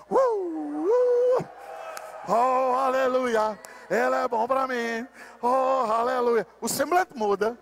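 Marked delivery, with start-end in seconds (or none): 0.1-1.5 high excited worship cry; sudden joyful yelp; ecstatic cry. Real, not acted. Preacher cries out in worship. 2.3-6.5 slow drawn-out shouted aleluia; joyful slow praise shout; exultant hallelujah. Real, not acted. Preacher exults in worship.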